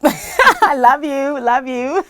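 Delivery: slow, high drawn-out I love you; imitating presenter. Imitating Stacey Norman's on-air sign-off, high and slow. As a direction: stretch it sweetly like a host signing off. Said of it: "I always imitate her".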